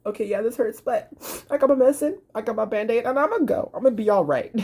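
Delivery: put-on high, chirpy child voice; upbeat kid shrugging off the hurt; brave happy kid. Kid with medicine choosing to be fine, high and chirpy.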